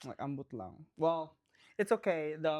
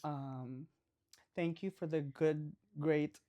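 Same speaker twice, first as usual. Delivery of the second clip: pageant contestant; 6 semitones lower, 7 dB quieter, slower than usual. Pretend. Mock pageant contestant answering.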